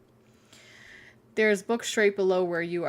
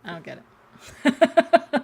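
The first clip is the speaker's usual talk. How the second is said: drawn out, much higher and louder; mock exasperation; 8 semitones higher, 8 dB louder, much slower than usual. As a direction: stretch it in theatrical confusion. Exaggerated confusion.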